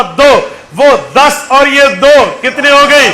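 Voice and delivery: rally the congregation through a running count; preaching. Real, not acted. (ज़ोरदार तक़रीर का अंदाज़)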